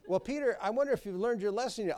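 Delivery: a playful mock of a smug Lord; teasing Lord. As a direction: prod him smugly. Lord voiced, questioning Peter.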